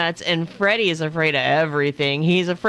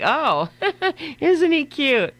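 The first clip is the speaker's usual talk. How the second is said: high-pitched cooing with a little laugh; mock-sweet high voice of a passer-by; fawning passer-by; 9 semitones higher, slower than usual. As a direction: coo like a stranger charmed by a dog. Imagined passers-by fawning over the dog.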